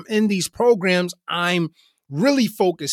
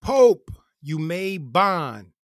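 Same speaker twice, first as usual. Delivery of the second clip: retold yell; much slower than usual. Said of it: "the C O yell".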